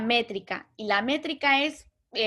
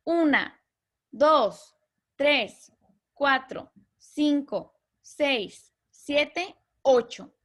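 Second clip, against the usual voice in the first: counting syllables aloud; 2 semitones higher, much slower than usual. Shown as a demonstration. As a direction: count out each syllable like a clap.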